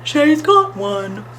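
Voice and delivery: high, slow, drawn-out thrill; excited. A narrator's reading. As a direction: stretch the words out in excitement. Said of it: "with excitement".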